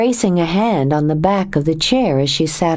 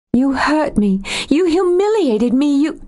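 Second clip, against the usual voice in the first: a higher woman's voice, rising with hurt; Joe, wounded and angry; 9 semitones higher than usual. A narrator's reading. Joe accusing Nathan of leaving, wounded and angry. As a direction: accuse him of leaving her.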